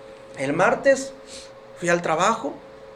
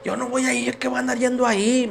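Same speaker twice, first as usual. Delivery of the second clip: higher, drawn-out dismissive refusal; slow, raised-pitch mocking retort, imitated; imitated scornful wife; 4 semitones higher, slower than usual. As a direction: mimic a wife brushing the idea off. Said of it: "mi esposa".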